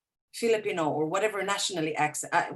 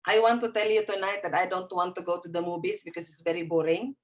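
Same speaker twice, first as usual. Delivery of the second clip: thick Filipino accent, v turning to b; quick demo of a heavy Filipino accent; faster than usual. Shown as a demonstration. Teacher shows examinee's unclear speech, thick Filipino accent. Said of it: "if I speak this way".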